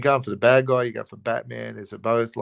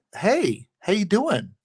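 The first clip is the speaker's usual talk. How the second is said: very high, lighthearted tenor; 9 semitones higher than usual. Describing how Bruce Wayne talks on the phone, in a lighthearted voice. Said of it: "of lighthearted, higher tenor voice".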